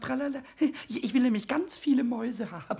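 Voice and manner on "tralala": light lilting refrain; reciting a poem. Acted. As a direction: round off your little verse. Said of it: "Ich hab schon ein Gedicht gemacht". (Gedicht vortragend)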